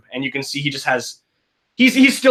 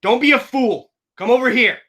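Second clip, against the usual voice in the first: urgent plea; 7 semitones higher, 4 dB louder than usual. Acted. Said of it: "Eddie just says".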